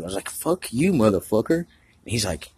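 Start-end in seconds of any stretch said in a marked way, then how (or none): 0.3-0.9 mock aggressive. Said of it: "funny and aggressive". 0.9-1.6 playful insult with a rising end; mock aggressive, easy and teasing; teasing greeting. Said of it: "funny and aggressive".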